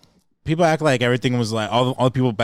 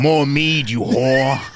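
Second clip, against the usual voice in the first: rowdy medieval patron; 3 dB louder, much slower than usual. Pretend. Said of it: "you really get into character".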